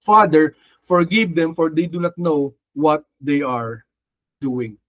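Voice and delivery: Jesus on the cross. Retold or imitated. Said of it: "Di ba sabi niya".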